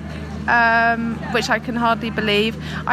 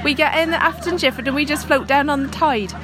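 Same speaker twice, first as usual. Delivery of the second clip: mock Devon accent. Imitating Devon locals to her friend, mock Devon accent. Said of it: "is that offensive to do that accent".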